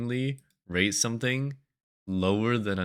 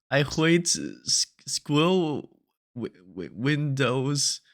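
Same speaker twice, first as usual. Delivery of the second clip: higher, louder stumbling cutesy VTuber; cutesy baby talk; 6 semitones higher, 6 dB louder, much slower than usual. Retold or imitated. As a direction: play a flustered cute streamer. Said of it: "where it's like".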